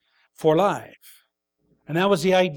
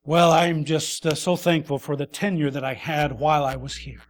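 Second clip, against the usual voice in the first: mock meek gratitude; 3 semitones lower than usual. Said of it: "your response isn't".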